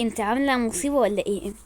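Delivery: hushed, wary question; wary hushed aside; suspicious whisper. Acted. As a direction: whisper it like you smell trouble.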